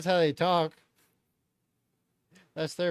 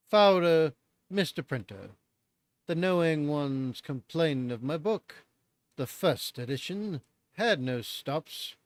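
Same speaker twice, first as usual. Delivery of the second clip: British narrator act. Retold or imitated. Streamer reading the author's note in a put-on British accent. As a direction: read it like a hammy British narrator. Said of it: "how's my garbage British narrator act".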